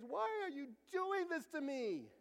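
high, drawn-out mock crying; imitated tearful wail. Boy asking his parents during allergy test, tearful wail. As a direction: wail it like a small boy in tears. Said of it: "he said this in tears".

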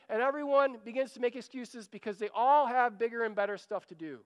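ordinary delivery

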